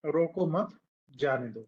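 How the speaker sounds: "रोको मत" as one phrase, brief break, then falling "जाने दो"; pause after मत. Shown as a demonstration. Teacher reads the board sentence aloud, pausing after मत. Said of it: "यहाँ पे कॉमा लगा दें".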